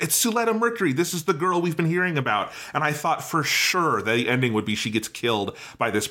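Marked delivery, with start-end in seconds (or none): 0.0-2.5 higher, teasing sing-song quote; mock taunting. Imitating Sophie taunting Suletta, higher and teasing. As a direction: tease her like a rival showing off. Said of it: "taunting and running around".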